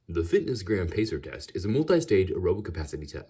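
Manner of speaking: slightly southern announcer voice; southern accent. Shown as a demonstration. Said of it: "I'm just gonna have to do a voice".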